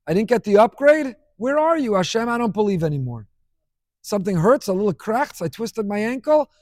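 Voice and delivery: hammed-up whiny outrage at God; mock entitled complaint. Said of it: "they say".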